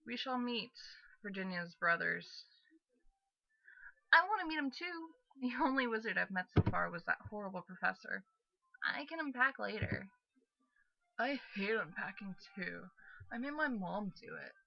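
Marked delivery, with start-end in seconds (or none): 4.1-14.5 put-on boyish voice.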